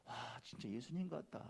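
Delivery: low, hushed awe; softly acted wonder; quiet marvelling. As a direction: murmur in admiration to yourself. Imagined onlooker's quiet marvel.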